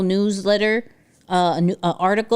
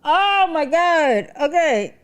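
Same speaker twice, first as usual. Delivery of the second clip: laughing sigh; 8 semitones higher, 3 dB louder, slower than usual. Real, not acted. Laughing recovery.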